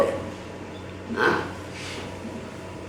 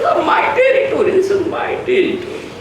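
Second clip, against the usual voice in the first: high mocking dog voice; territorial dog; 12 semitones higher, faster than usual. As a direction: claim the turf like a yapping dog. Dogs claim territory.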